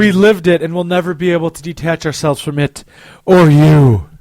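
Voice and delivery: milk it like a romance novel; romance novel narrator. Pretend. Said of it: "my romance novel voice".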